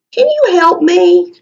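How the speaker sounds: Can you help me? with a lifted, asking tune; question tune. Shown as a demonstration. Teacher modelling a question for the class. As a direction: read it as a real question. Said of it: "that's a question".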